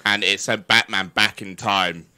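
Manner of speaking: deep, low supervillain voice; booming echoing villain monologue. Acted. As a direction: intone it like a doom-laden villain. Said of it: "I'm gonna do it".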